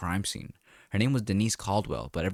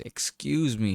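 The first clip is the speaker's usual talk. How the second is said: shouted; 5 semitones higher, 3 dB louder, slower than usual. Acted. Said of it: "she shouted".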